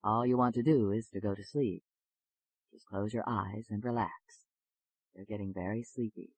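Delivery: low, reassuring hypnotist's patter; soothing hypnotist. Acted. Doctor putting a nervous patient under hypnosis, soothing and low.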